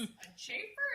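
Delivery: dad correcting. Retold or imitated. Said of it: "And he goes".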